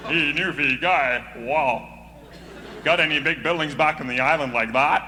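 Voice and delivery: a hint of the Toronto fella mocking Newfoundlanders; mocking tease. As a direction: lightly rib the islander about big buildings. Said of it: "He used to poke fun at us".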